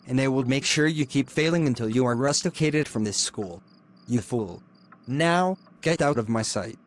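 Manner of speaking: cold, hushed threats from a lecturer; menacing hushed scolding. Acted. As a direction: keep it under your breath and menacing.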